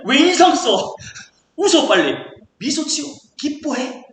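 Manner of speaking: loud, pressuring command to cheer up; mock bullying. Preacher jokingly pressuring a listener to rejoice, mock bullying. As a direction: badger someone playfully into smiling. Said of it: "막 그래가지고 우리가 협박하고 압력한다고".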